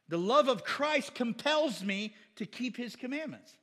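loud, high proclaiming of the verse; preaching. Acted. Preacher proclaiming the verse to the church. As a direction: ring it out to the congregation.

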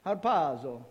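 mock Italian, a little like Mario; bad mafia Italian accent. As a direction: play it as a cheesy Italian mafioso. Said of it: "a bad mafia Italian accent".

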